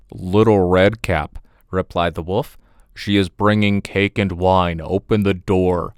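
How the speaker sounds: a hint of a low, sly wolf; a touch of a crafty wolf at the door; lightly voiced wolf. Wolf pretending to be Redcap.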